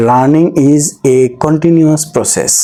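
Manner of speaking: reads the English example very slowly, word by word; slow example reading. Shown as a demonstration. Teacher reading an example sentence slowly to students. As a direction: spell the sentence out slowly for learners. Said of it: "আমরা একটু উদাহরণটা আবার দেখি".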